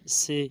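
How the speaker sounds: "سے" with an s instead of th; seen-sound mistake. Shown as a demonstration. Teacher shows what not to read, sibilant "سے". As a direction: misread the letter as "say", "سے". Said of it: "یہ سین کی آواز نکلتی ہے".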